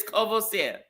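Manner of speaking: Courvoisier said as "koh-vuh-SEH"; French pronunciation. Shown as a demonstration. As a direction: correct them with Courvoisier ending in "seh". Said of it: "that is not the French word".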